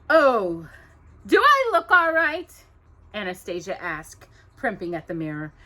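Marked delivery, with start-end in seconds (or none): 0.1-2.5 high, loud fussing question; vain stepsister. Acted. Anastasia primping at the mirror, vain. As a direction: fuss over her looks.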